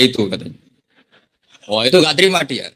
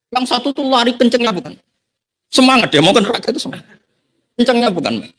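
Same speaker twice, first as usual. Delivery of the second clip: high, eager storytelling voice, much higher; excited; 10 semitones higher than usual. Acted. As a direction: marvel at how fast he ran. Telling of the eager runner.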